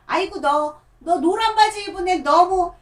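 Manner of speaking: put-on calling to a kid in yellow pants; puppet grandma voice, abandoned. Shown as a demonstration. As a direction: start a grandma voice, then drop it. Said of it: "할머니로 할게요".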